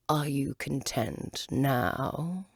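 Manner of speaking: very slow caterpillar voice; a slow, drawn-out caterpillar question; a lingering caterpillar voice. Acted.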